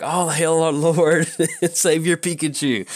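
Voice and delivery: loud, high mock-worship proclamation; retold yell. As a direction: hail it like a grand idol, hammed up. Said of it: "And so I yelled that".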